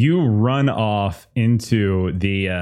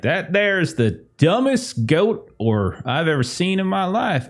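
hick farmer voice; 6 semitones higher than usual. Acted.

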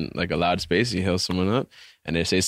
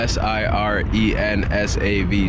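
spelled out slowly, letter by letter; slow and deliberate spelling; 3 dB louder, slower than usual. Shown as a demonstration. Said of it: "spelling out her name".

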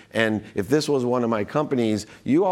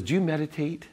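lightly voiced doctor, higher questioning pitch; imitated doctor; 6 semitones higher, 3 dB quieter than usual. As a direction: ask it in her raised voice. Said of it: "She goes".

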